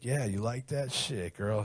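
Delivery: slow, drawn-out dirty talk; put-on bedroom talk. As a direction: imitate himself talking crazy in bed. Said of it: "You sound like a black guy".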